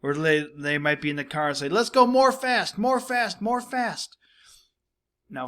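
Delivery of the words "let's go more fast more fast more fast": put-on high-pitched excited child voice; little kid. Little kids in the car urging more speed, in a high child's voice. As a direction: chant it high, like an eager kid. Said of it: "in the grammar of little kids".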